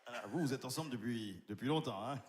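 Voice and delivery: low, cold contemptuous doctor; a hint of a deep, disdainful doctor; arrogant doctor House. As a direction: sneer as the nasty TV doctor. Doctor addresses couple.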